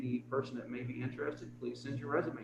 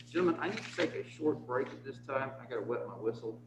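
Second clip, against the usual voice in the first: muffled speech through a mask; through a face mask; 2 semitones higher than usual. Real, not acted. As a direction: talk with a mask over your mouth. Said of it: "Talking under this mask does something to your mouth".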